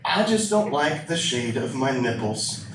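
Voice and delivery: low, slow, a hint of a mopey woman; mock girl voice. Quoting wife's friend in the kitchen, mopey mock voice. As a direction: drag it out like a sad confession. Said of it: "I hear this girl going".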